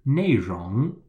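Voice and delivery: 内容 with 内 falling and 容 rising; teaching demo of 内容, fall then rise; fourth tone, then second. Shown as a demonstration. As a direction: say 内容 clearly, down on 内, up on 容. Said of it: "N E I in the fourth tone and R O N".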